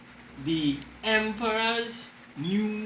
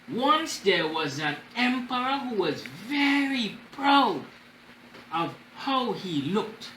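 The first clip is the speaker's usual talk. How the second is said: story reading; slower than usual. Acted. Reads storybook to class.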